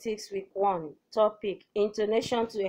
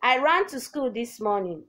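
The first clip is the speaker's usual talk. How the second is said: "I ran to school this morning" starting raised, then falling; falling-tone statement; 3 semitones higher than usual. Shown as a demonstration. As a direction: state it, dropping pitch towards "morning". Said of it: "falling tone".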